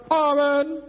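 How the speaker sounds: high, loud, held Amen; emphatic Amen. Acted. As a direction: proclaim it loudly as the last word. Acts emphatic closing of rebuke. (lautes, hohes Schlusswort)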